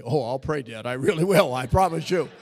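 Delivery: a hint of a kid begging to be trusted; mock earnest son swearing he'll pray; pleading son.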